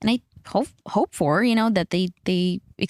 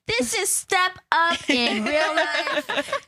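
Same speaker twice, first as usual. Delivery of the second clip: excited gush; 8 semitones higher, much slower than usual. Retold or imitated. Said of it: "I was like".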